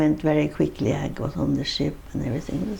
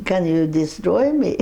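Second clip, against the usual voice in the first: chuckling through the punchline; laughing; 3 semitones higher than usual. Real, not acted. Telling the interviewer about Noel's barber blunder, laughing. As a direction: laugh as you say it, real amusement.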